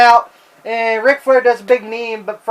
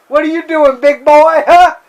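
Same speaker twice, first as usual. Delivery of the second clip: mock Sid; 4 semitones higher, 4 dB louder than usual. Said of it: "you said".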